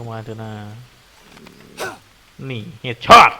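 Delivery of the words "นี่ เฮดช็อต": a sudden loud headshot yell; excited shout. Real, not acted. Gamer shouts at the screen after landing a headshot, loud yell. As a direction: shout it out after nailing the shot.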